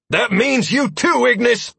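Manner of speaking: slow loud urgent yell. A narrator's reading. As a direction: yell at him to move. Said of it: "I yelled".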